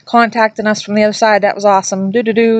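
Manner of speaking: lightly voiced chirpy kids; cheery goodbye. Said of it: "They were saying".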